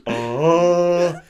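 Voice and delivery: high, loud drawn-out "oh"; imitated horn call. Imitating Boromir's horn for a gag, mock blast. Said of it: "He just goes".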